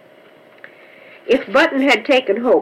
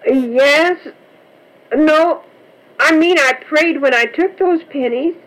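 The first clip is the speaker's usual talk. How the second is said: put-on higher, flustered young girl stumbling over her answer; a daughter caught out, backpedalling; flustered child; 6 semitones higher than usual. A narrator's reading. Button answering her stern father, higher flustered girl.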